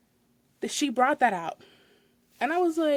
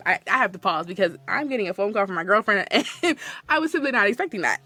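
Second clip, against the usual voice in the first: laughing; 2 semitones lower, 3 dB louder than usual. Real, not acted.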